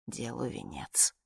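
slow, breathless whisper. Acted. Dying woman to herself, whispered slowly. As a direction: let it fade to a whisper at the end. Dying narrator's grim aside.

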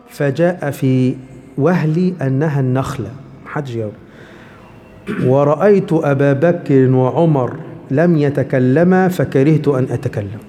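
slow, measured classical Arabic reading; slow solemn narration of the hadith; hadith recitation. Acted.

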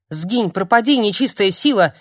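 loud cry to banish evil; frightened woman crying out at the ghost, loud; exorcising cry. Acted. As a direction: drive the spirit away. Exorcising an apparition.

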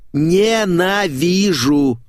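slow seething hatred; hateful growl. Acted. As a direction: stretch the word out like you can barely stand her. Critic rants about rival writer.

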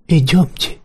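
snide mocking copy; caustic parody. A narrator's reading. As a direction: mimic him with a sneer. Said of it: "пародировал я его едко и нагло".

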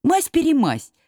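high, urgent call across the water. Acted. Знайка calls to friends while swimming, high shout. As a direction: shout orders to the others mid-stream. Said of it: "кричал Знайка".

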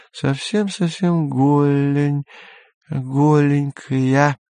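put-on high, slow drunken purr. A narrator's reading. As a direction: coax him, slurring drunk. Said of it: "пьяный голос Сельмы".

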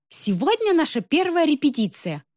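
high-pitched festive speech; ringing ceremonial announcement. A narrator's reading. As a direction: proclaim it grandly to the hall. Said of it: "сказала она звонко".

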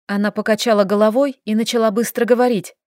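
ordinary delivery, nothing marked

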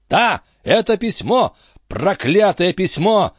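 a high-voiced captain grilling his friend; excitable old sea captain. A narrator's reading. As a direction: press him like a fussy old skipper. Antifer curses the letter.

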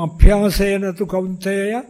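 Sanskrit verse. Retold or imitated. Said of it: "ഭഗവാൻ തന്നെ പറയുന്നു".

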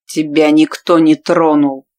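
slow, heavy rasping growl; rasped in her face. A narrator's reading. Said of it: "прохрипел в лицо".

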